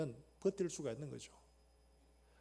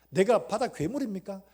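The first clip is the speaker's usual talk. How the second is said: loud pleading question; lamenting question; 4 semitones higher, 9 dB louder than usual. Retold or imitated. Job asking God if he is a sea monster, loud lament. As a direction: ask God in anguish. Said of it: "그렇게 탄식하면서".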